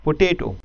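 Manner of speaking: पोटैटो with the second syllable TA stressed; teacher modelling second-syllable stress. Shown as a demonstration. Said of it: "stress ... second syllabus पे".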